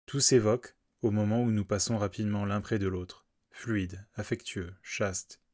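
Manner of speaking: measured, understated poetry recital; poem reading. Acted. Podcaster reading Whitman's poem to listeners, understated poetry recital. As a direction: read the poem gently, each phrase settling downward.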